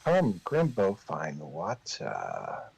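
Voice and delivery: a slow, low echo of the player's words, trailing off; light imitation of the player, slowing and dropping at the end; mimicking the player's voice. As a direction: parrot the player back, drawing out the end. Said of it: "he says in your exact voice".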